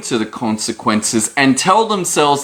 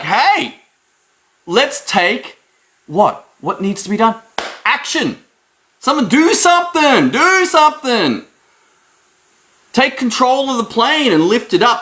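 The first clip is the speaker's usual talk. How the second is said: urgent plea; 9 semitones higher than usual. Pretend. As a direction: urge them to act now. Pleading for someone to act.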